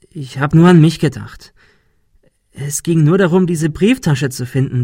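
earnest apology. A narrator's reading. Ben apologises to Monika, earnest and urgent. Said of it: "Er meinte es todernst".

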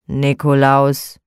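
slow, low sullen grunt of a name; grumpy grumble. Acted. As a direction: drag out his name unwillingly. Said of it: "brummte er ebenso mürrisch".

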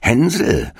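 Hänsel called out high and drawn; witch calling. A narrator's reading. Witch at the stall calling Hansel, high call. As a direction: sing out the boy's name slyly. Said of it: "schlich die Alte zu dem Ställchen und rief".

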